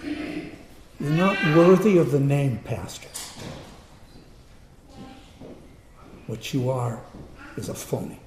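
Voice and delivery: unvoiced, biting the words back instead of yelling; held-back yell. A patient wanting to yell at a fake pastor, held back unvoiced. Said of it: "I just wanted to yell".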